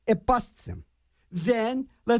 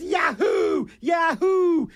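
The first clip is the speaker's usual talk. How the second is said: imitating Howard Dean; 10 semitones higher, much slower than usual. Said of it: "he goes".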